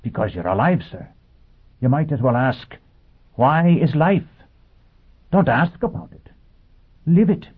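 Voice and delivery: high, earnest robot voice; a machine preaching with conviction. Acted. Robot lecturing Foyle.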